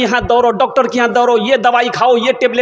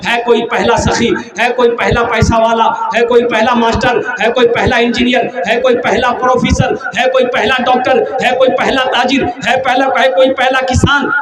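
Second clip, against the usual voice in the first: preaching appeal; 2 semitones higher than usual. Acted. Preacher calling the congregation to donate, rising call. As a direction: challenge the audience to step forward and give.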